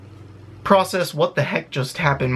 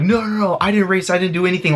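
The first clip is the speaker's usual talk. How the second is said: pitched up, rushed no no no; panicked denial; 4 semitones higher than usual. Retold or imitated. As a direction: plead your innocence in a panic. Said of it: "I was freaking out".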